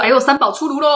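put-on teasing boyfriend. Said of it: "讲话很鸡掰".

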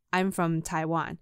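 slow, deliberate "I'm from Taiwan"; slow insistence. Retold or imitated. Repeating the answer to a doubting colleague, slow and deliberate. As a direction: spell it out patiently for them.

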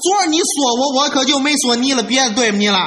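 hurried acted indignation; flustered, worked up. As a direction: protest hotly at the mother-in-law. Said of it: "他可急了".

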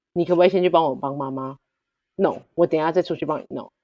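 gentle, considerate asking; a husband asking his wife politely for help; polite request. Shown as a demonstration. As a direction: ask nicely, as it should be said. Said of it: "话应该是要这个样子".

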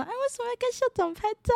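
high, quick soft questioning; hairdresser's question. Retold or imitated. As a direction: ask like a curious salon aunt. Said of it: "然后就说".

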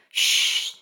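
unvoiced hushing shh; whispered shush. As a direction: hush them urgently. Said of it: "James whispered back".

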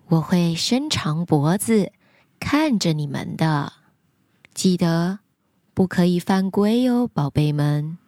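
low, gentle mother giraffe. Acted. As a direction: soothe the little ones, low. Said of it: "长颈鹿妈妈说".

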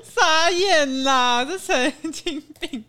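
slow, drawn-out stunned disbelief; dragged-out groan of shock. Real, not acted. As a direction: stretch it out in disbelief. Reacting to the story's twist.

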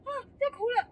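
on the verge of tears while telling it; about to cry. Real, not acted. Telling friends about the dean, close to crying. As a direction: voice catching, fighting back real tears.

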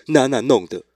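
put-on quick, innocent toddler blaming the cat; child's voice. Dad imitating his son blaming the cat, lightly childlike.

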